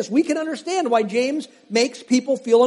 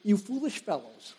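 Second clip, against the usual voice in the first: quoting roommate; 10 dB quieter than usual. Retold or imitated. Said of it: "used to always use this term".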